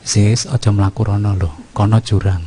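low, unhurried, too-gentle caution; mild warning. Pretend. Father mildly warning his faraway son about the cliff, too gentle. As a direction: warn him mildly, as if he were right beside you. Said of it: "apakah ngomongnya juga gitu?".

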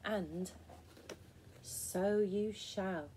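very slow, measured pronouncement; mock booming voice. A narrator's reading. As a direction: draw it out like a mysterious storybook apparition. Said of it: "came a loud voice".

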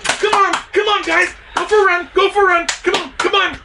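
high, loud calls to the dogs; calling the dogs. Acted. Jackrabbit luring the dogs out, high loud calls.

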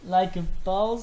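slow, stretched Like a boss; Like a boss dragged out with mock swagger; drawn-out mock swagger. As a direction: savour each word of Like a boss like a show-off. Repeats catchphrase drawn out.

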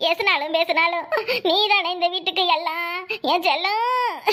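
hammed-up mourning; put-on wailing. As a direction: pretend tearful lament. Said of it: "கொஞ்சம் அழுவுற மாதிரி மூஞ்சி வச்சுக்கோ".

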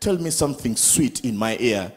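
low, soft crooning request; mock tender plea. Man sweet-talking his girlfriend, low soft croon. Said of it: "You say".

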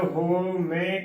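ਹੋ ਮੈਂ with a closed "ho" opening; wrong pronunciation. Shown as a demonstration. Teacher warning of another error, ਹੋ ਮੈਂ starting "ho". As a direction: round the first vowel of ਹੋ ਮੈਂ to a long o. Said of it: "ਤਾਂ ਵੀ ਗਲਤ ਹੀ ਉਚਾਰਨ".

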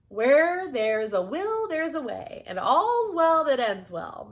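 high, loud, ringing pronouncement; triumphant proverb. Acted. Miss Tilly showing Bee she was right, triumphant.

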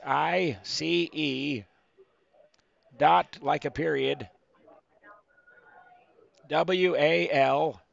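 slow letter-by-letter spelling; dictating to slow typist. Acted. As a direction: spell each letter out painfully slowly. Spelling email to scam caller.

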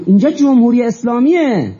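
high, emphatic quoted proclamation; ringing retold statement of authority, falling at the end; authoritative declaration. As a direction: imitate a leader laying down the law. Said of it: "با چه اقتداری".

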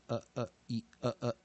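short neutral schwa 呃, with 一 as the odd one out; weak-vowel demo. Shown as a demonstration. Teacher showing how weak vowels are read, short neutral 呃. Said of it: "在弱母音的时候，通常念".

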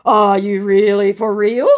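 slow, loud disbelieving question; mock incredulous. Replying to someone claiming to be real, mock incredulous. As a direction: ask it slowly in hammed-up disbelief. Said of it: "came the absolutely incredulous response".

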